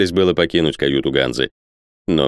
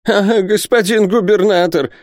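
high, desperate cry; distraught exclamation; 3 dB louder than usual. A narrator's reading. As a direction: call out to the governor in panic. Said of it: "воскликнул Исаак Хакабут".

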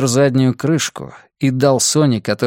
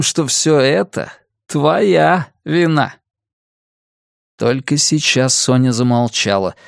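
lightly voiced sneering kidnapper; mock her with cold amusement; gloating villain; 2 semitones higher than usual. Villain taunts his captive.

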